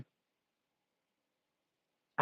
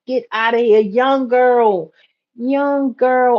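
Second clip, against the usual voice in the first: high, loud disbelief at the news; disbelieving exclaim; 7 semitones higher, 3 dB louder, slower than usual. Retold or imitated. To a depressed young friend, high disbelieving protest. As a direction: tell her you don't believe it. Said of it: "I'm like".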